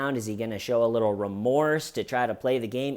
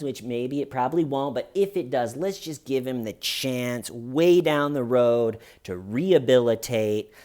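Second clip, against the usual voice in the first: flattering. Retold or imitated. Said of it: "stroking the judge's ego".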